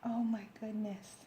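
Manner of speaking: breathless awed whisper. Real, not acted. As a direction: whisper it, overcome. Moved by the book.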